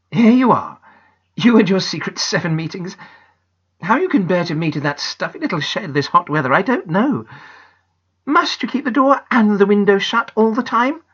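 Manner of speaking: fondly teasing her daughter; lightly voiced amused mother; mother's voice. Mummy teases Janet.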